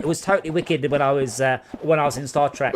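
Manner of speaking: lightly put-on thick London accent; breezy London accent, imitating the actress. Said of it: "thick Landan accent".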